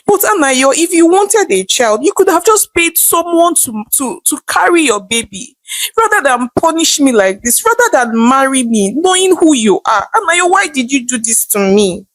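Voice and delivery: a touch of crying, pitch rising as she pleads; hurt, half-crying reproach to her husband; tearful plea. Acted. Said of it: "Nene asked, crying".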